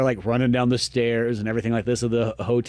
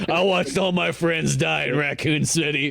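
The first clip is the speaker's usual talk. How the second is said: slow, put-on survivor voice; imitated jaded mom. Mom tells Grace of her lost friends, mock-jaded voice. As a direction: draw it out as the hardened mom. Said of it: "her mom's just, like, sitting there".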